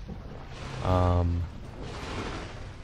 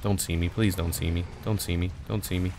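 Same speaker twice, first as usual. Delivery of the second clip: pleading whisper; 6 dB quieter than usual. Real, not acted. Sneaking past an enemy.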